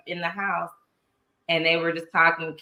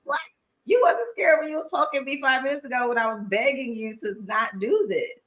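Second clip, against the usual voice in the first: mock confrontation; 4 semitones higher than usual. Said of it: "I'm like".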